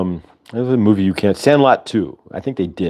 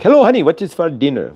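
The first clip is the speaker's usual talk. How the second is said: put-on Short Circuit accent; 7 semitones higher than usual. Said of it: "And he's like".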